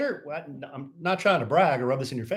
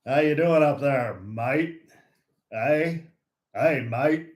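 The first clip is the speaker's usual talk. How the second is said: playful blend of Canadian and Australian; lightly mix Canadian and Australian accents; slower than usual. Pretend. Host teasing a Canadian viewer, mock Canadian-Australian accent. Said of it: "Mix the Canada and the Australian".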